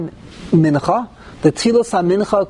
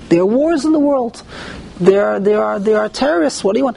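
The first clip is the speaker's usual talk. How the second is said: higher-pitched imitation of someone explaining it away; voicing the naysayers; 3 semitones higher than usual. Rabbi acting out those who blame world events, voicing the naysayers. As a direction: play the dismissive objector, pitch up. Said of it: "if you say that the reason".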